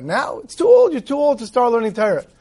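high-pitched retold disbelief, peaking on "too old"; mock incredulous. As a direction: imitate a father's incredulous objection, pitch leaping up. Father scoffs at son's wish.

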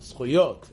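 "Schuyot" said as the Israelis correct it; correcting the word to "Schuyot"; Israeli correction. Retold or imitated. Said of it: "That's what they'll tell you".

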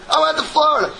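high, loud, flustered insisting; frazzled patient. Retold or imitated. Stressed patient insists to the doctor, high and flustered.

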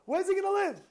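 can't believe what she just heard; out of the house, stunned; shocked disbelief. Retold or imitated. Shocked reaction in retold exchange.

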